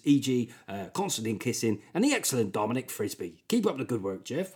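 put-on lightly done West Country accent reading. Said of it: "gives me a chance to do a great West, West Country accent".

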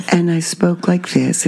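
a hint of a Mid-Atlantic accent. Shown as a demonstration. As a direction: speak like an old film star, Mid-Atlantic. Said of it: "I talked like I was from Mid-Atlantia".

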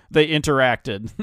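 slow, robotic alien observer. Pretend. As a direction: say it like an alien studying humans. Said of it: "like an alien speaking".

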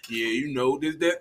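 low, soft, offhand boast; bragging cousin. Retold or imitated. Friend mimics his cousin showing off the car, low-key brag.

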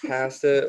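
"Pasta" with short a, as in cat; Canadian pronunciation. Shown as a demonstration. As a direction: say "Pasta" as PASS-ta. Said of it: "what's the other one?".

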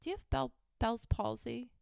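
high-pitched, condescending "Do you have Bell's palsy?"; imitating a doctor talking down to a patient; mocking doctor question. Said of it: "the person says".

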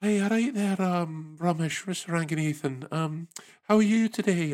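put-on Scottish call centre accent, calming an angry caller. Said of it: "Luke up in Edinburgh".

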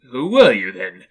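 loud question, dropping off at the end. A narrator's reading. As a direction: raise your voice at the ghost. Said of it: "raising his voice".

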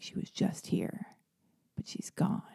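soft, whispered news; hushed staff reply. Retold or imitated. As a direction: breathe it out like a secret. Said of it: "they were like".

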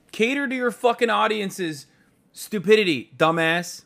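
hammed-up furious rant; mock angry rant. Ranting at a tweet.

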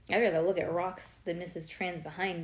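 usual speaking voice

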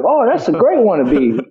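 high-pitched Cockney impression; playful mock Cockney; Jason Statham. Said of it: "you know, Cockney, he's like".

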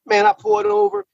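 cracking high with feeling; overcome with emotion. Real, not acted. Telling a friend how he pulled over, overcome and high-pitched. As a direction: voice jumps way up, overwhelmed. Overwhelmed retelling the call.

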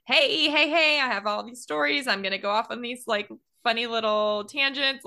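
high peppy salesman pitch; hammed-up eager salesman; traveling salesman. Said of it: "weird traveling salesman".

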